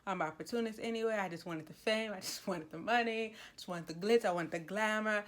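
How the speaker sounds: a quick, half-mocking imitation of a shameless opportunist; fast mocking rant. Shansai popping off at Daming Seo, rapid mock brag. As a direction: rattle off the boastful lines quickly in a mock brag. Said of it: "she was popping off at the mouth saying".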